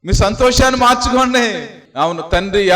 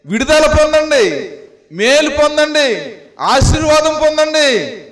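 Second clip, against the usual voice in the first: impassioned preaching; 3 semitones higher than usual. Acted. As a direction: urge the flock to wash in the blood. Pleads with the congregation to weep. (ఉద్వేగభరితమైన ప్రసంగం)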